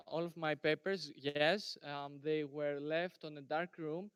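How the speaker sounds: softly spoken answer; too quiet. Real, not acted. Presenter answers the questioner about dark room, too quiet. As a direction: answer softly, barely projecting. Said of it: "Can you please speak louder?".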